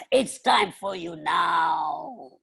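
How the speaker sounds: slow, drawn-out gloat with cackles; gloating witch. Acted. Witch gloats to the chief before the kill. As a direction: relish the threat, very slow on old One Eye. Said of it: "The third yawn".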